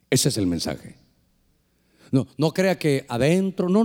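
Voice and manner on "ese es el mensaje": very low, hushed divine voice; voice from outside. Retold or imitated. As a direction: deliver it deep and weighty, like a voice from God. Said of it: "y me dice".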